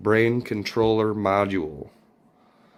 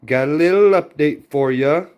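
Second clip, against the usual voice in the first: loud, high, pumped-up greeting; big energetic vlog host opener; hyped intro; 5 semitones higher, 6 dB louder than usual. Real, not acted.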